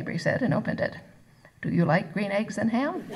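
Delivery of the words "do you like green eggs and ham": laughing read-aloud. Acted. Reading Dr Seuss aloud, laughing.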